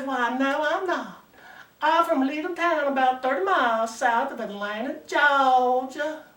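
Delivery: lightly voiced Georgia belle; a hint of a Southern lady introducing herself. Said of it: "Ain't nothing like a good-looking Southern belle".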